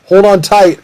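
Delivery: high, loud warning; acted alarm in a chase; urgent warning. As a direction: call it out urgently to a companion.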